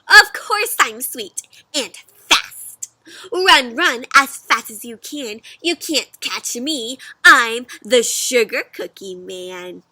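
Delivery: sing-song taunt, daring him; cocky cookie. Acted. Cookie taunting the fox to chase him.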